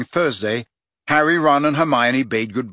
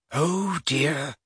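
understated nervous little voice; 3 semitones higher, 4 dB quieter than usual. A narrator's reading. Hermione faces the hippogriff, nervous. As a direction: say it a touch softly, uneasy. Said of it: "said Hermione nervously".

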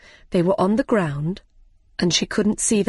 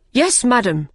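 higher, moderately raised call; shouted reply; 4 semitones higher, 3 dB louder than usual. Acted. King's men answering the Queen, calling out. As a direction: answer up promptly like soldiers. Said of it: "shouted the King's men".

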